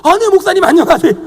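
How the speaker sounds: sudden loud, high, effusive politeness; mock flustered greeting. Caller realising it is the pastor, exaggerated flustered greeting. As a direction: imitate an over-eager switch to courtesy.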